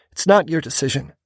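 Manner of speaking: insist, stress on not; firm woman. A narrator's reading. Female character insists.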